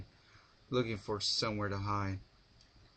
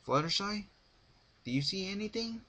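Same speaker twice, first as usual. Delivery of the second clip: yelling up; 11 semitones higher than usual. A narrator's reading. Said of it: "Rarity yelled up to Fluttershy".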